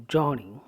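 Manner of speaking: JOUR-ney, strong first syllable, weaker "ney"; first-syllable stress. Shown as a demonstration. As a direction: lean on the start of "journey" and let it fall. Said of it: "ja is to be stressed".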